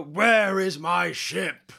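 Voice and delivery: very slow, drawn-out demand; slow god voice. Acted. Player repeating his god demand, very slowly drawn out. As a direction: stretch each word out slowly. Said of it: "like, go".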